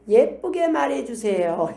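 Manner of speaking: slow, drawn-out sweet plea; mock-cute, stretched-out request; daughter's request. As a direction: lightly imitate a daughter asking nicely. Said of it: "우리 딸이 하는 얘기".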